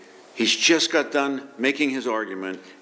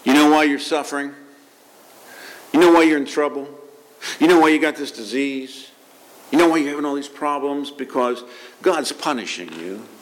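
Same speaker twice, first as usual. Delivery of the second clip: accusing voice; 3 semitones higher than usual. Retold or imitated. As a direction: needle someone with blame. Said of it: "The voice says".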